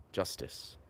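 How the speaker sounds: soft unvoiced whisper of Justice. Shown as a demonstration. Musing on a pun in a whisper. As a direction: breathe the word like a secret. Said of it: "play on words with justice and just this".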